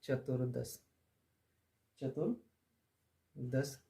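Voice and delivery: चतुर्दश spoken slow and soft, stretched; careful enunciation. Shown as a demonstration. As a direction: spell out चतुर्दश for the class. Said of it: "देखिए".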